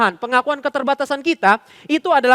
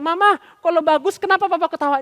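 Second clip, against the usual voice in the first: put-on higher-pitched questioning kid; puzzled child; 7 semitones higher, 4 dB louder than usual. Child asks mother why papa laughs, high child's question. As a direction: ask it high, like a small child. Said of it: "anaknya bilang".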